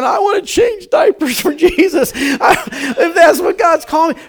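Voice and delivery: high, loud hammed-up enthusiasm; mock eager cry. Congregation jokingly shouting they'll change diapers for Jesus. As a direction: pretend to volunteer on the spot. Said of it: "we're all going".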